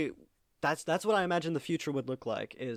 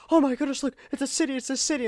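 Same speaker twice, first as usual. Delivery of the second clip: much higher, wide-eyed discovery; mock-amazed singer squealing over the city; excited gasp; 10 semitones higher, faster than usual. A singer gasping at a city, mock amazed.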